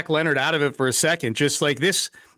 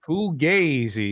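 slow, lightly mocked Italian accent on "Fugazi"; a slow Italian-accented "Fugazi", copying his co-host; stretched-out mock Italian "Fugazi"; imitating Italian accent; much slower than usual. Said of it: "He says it with that great Waco Italian accent".

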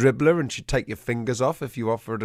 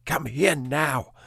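stern command; 3 semitones higher, much slower than usual. Retold or imitated. Owner ordering his dog Peanut to come, slow mild mock stern. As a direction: spell out each word like a final warning to a disobedient dog. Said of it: "I was shouting at her".

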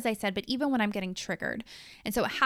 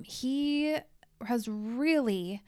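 sincere whisper; 2 semitones higher, much slower than usual. Real, not acted. Tender praise of husband.

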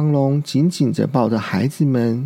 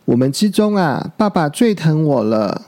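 smug. Acted. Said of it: "小鹿又洋洋得意地说".

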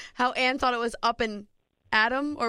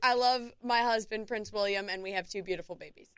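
mock British accent. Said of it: "in your British accent".

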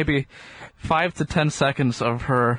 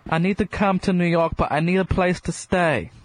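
put-on higher, half-convincing English accent; fake English accent; 4 semitones higher than usual. Imagined author asking Melissa for lodging, in a would-be English accent. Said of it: "supposed to be an English accent".

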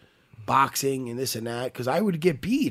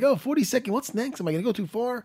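worried inner voice; 7 semitones higher than usual. Retold or imitated. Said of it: "I'm like".

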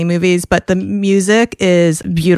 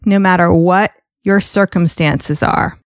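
bright, scripted host welcome over music; polished announcer-style introduction; podcast intro read. Acted. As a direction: read the show open like a radio host.

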